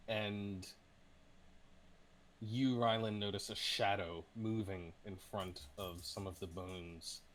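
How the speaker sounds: deliberate storytelling with suspenseful pauses; game master narration. Acted. Game master describes a glimpsed creature to Ryland, suspenseful narration. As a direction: build suspense, leaning on key words.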